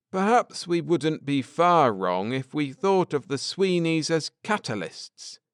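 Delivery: earnest scholar laying out history; Ned, earnest. Acted. Ned explaining the Druids to his wife, lightly voiced earnest man.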